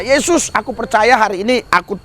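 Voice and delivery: a hint of a prayer voice; simple prayer. Shown as a demonstration. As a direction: pray it plainly and sincerely. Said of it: "padahal sederhana aja".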